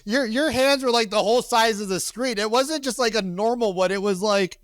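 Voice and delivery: high, loud squealing astonishment; shrieking laughing disbelief. Real, not acted. Host reacting to a guest's wild story, high shrieking disbelief.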